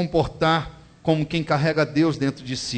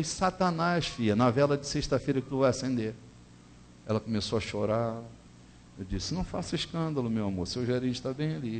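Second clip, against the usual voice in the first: hushed; 6 dB quieter than usual. Retold or imitated. Talking low near manager.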